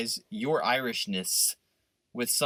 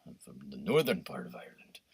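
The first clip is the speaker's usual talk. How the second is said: mock Northern Irishman; 11 semitones lower, 8 dB quieter than usual. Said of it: "you're like".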